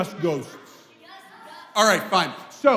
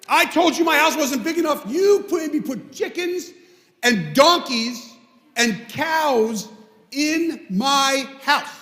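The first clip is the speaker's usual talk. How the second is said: raised, higher voice, fed up with the rabbi; angry complaint; 5 semitones higher than usual. Retold or imitated. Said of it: "he storms in".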